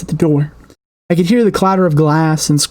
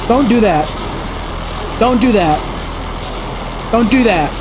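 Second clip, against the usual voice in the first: eerie tape voice; 5 semitones higher, much slower than usual. Acted. Distorted voice on the tape.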